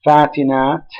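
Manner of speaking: "fatinat" stressed on the final NAT; final-syllable stress. Shown as a demonstration. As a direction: lean on the last syllable of "fatinat". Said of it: "stressed on the last syllable".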